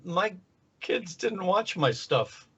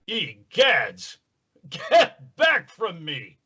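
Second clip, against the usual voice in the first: alarmed pompous superhero; the Tick; 2 semitones higher, 4 dB louder, much slower than usual. Acted. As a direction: recoil with melodramatic, drawn-out horror. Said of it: "the superhuman Tick".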